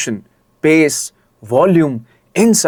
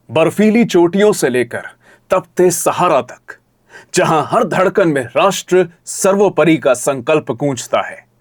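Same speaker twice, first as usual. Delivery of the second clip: powerful low pitch. Shown as a demonstration. Voice coach demonstrating a patriotic script, powerful and inspirational. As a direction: read it with power and measured pauses. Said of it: "low pitch voice आपको रखनी होगी; powerful, low pitch".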